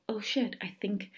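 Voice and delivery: hushed, awed whisper; whispered realization. Retold or imitated. Listener's imagined realization of magic, whispered. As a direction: breathe it like a secret dawning. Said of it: "when you were like".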